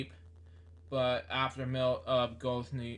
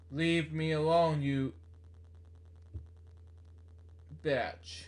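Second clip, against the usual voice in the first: retold yelling; 3 semitones higher than usual. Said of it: "he's yelling the whole time".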